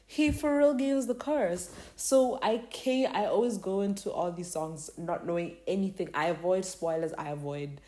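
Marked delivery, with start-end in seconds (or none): 0.1-1.7 high-pitched mock indignation; retold outrage. Fan retelling being mad at the teaser spoiler, high mock outrage. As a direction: replay being mad, voice jumping up. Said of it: "I was so mad".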